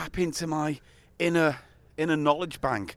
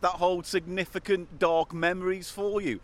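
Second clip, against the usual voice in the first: mock-enthusiastic gushing; sarcastic delight. Real, not acted. The speaker mocking the choice of starting place, sarcastic. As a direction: feign love for an awful idea. Sarcastic about dark memories bench.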